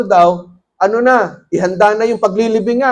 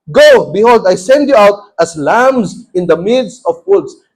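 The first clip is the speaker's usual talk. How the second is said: scripture reading; 3 dB louder than usual. Acted. Reads Luke 10 aloud.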